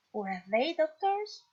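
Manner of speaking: slow, careful English question; teacher modelling a question to the class slowly; slow model reading. Shown as a demonstration. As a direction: spell it out slowly for learners. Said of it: "teacher reads example question".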